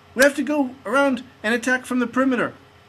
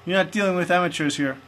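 lower, gruff-sounding action-hero taunts; tough agent voice; 7 semitones lower than usual. Pretend. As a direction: taunt the ghost like a movie hero. Plays tough ghost-hunting agent.

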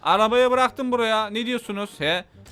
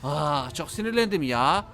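ordinary talk

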